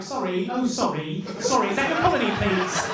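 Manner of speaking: mock-polite British accent; lightly put-on, apologetic British accent. Colonizer politely asking for a colony, British accent. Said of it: "I think the British accent is".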